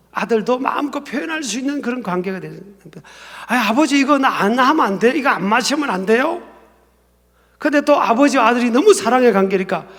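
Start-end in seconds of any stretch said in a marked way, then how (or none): 3.5-6.4 son's higher-pitched appeal, lightly acted; mild pleading. Son begging father to skip the cup, mild pleading. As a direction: plead with Dad to be let off.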